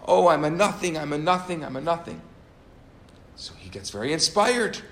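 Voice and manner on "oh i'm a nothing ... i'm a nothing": mock scream.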